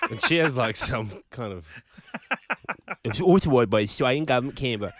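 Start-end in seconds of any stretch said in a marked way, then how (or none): 3.0-4.9 fast, odd government ad read; imitating ad voiceover. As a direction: rattle off like a weird ad announcer. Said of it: "She sounds weird".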